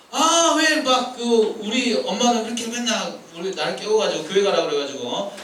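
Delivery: mock grumble about mom; acted complaining. Preacher voicing a child woken for church, mock complaint. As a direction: whine like a put-upon kid, lightly. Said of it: "불평한다는 거지".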